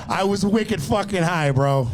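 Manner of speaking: put-on slow, drawn-out Boston accent. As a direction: lean into a Boston accent for the bit. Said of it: "We're gonna keep it on Boston for a bit".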